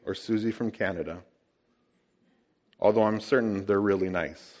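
lightly voiced low, hushed intro. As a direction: ease in quietly like the ad guy. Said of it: "in a low voice he says".

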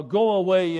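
loud demand. Acted. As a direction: drive the intruder off. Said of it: "they demanded".

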